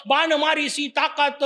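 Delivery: "ताकात" said as one word, no nasal; confident misreading. Retold or imitated. Preacher mimics a blundering preacher's verse, confident. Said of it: "दणकून सांगितलं".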